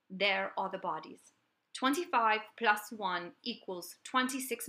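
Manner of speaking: put-on a faint, half-hearted British accent reading a letter; British accent attempt. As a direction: read the letter in a barely British accent, unsure. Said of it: "I'm gonna attempt to do a British accent".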